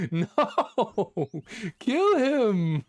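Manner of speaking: high, loud yell at the screen; frantic shout. Real, not acted. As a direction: scream it at the game. Frantic shouting during boss fight.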